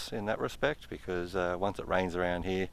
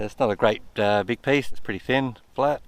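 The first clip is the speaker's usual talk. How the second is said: excited; 3 semitones higher, 6 dB louder than usual. Real, not acted. Finds a piece of gold.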